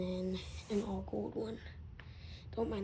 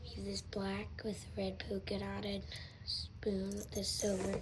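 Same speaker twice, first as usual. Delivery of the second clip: whispering. Acted. Lure unboxing, whispered lines.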